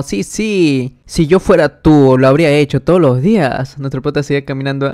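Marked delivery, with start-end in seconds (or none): 0.0-3.8 excited. Acted. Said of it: "todo emocionado".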